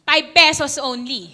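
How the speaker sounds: loud, hammed-up Filipino-accented price call. Shown as a demonstration. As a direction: Filipino accent with "pibe" for Five. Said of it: "Not five".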